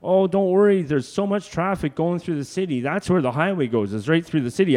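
put-on a high, carefree old Al voice; dismissive old man. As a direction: shrug it off like a cocky old man. Al dismissing the hitchhiker's worry.

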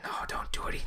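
hushed, imitated whispered protest; retold whisper. Imitating a girl whispering behind him in the theater, whispered. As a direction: whisper it, mimicking an overheard moviegoer. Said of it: "like, whispering".

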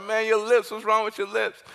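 lightly voiced kids poking fun; a hint of jeering teens; teasing classmates. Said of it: "And they're like".

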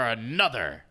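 loud, high hype announcer; lucha libre announcer. Acted. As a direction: boom it out like a wrestling host. Hype podcast intro announcement.

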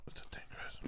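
ASMR whisper. Pretend. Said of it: "ASMR bit".

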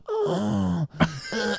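mock intense gasp and soft moan; imitated gasp. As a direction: act out a gasping reaction. Imitates face seen during the thrust.

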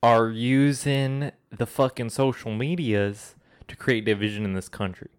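light put-on Southern accent, ranting; a hint of a Southern accent for a mock rant. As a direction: play a Southern conspiracy ranter in a mild Southern accent. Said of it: "talking in a Southern accent".

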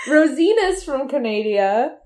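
Canada said as ca-NAY-dee-a; playful mispronunciation. Pretend. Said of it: "You've never heard that?".

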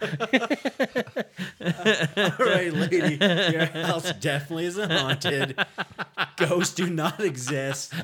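laughing announcer voice. Acted. Exorcist addressing the lady.

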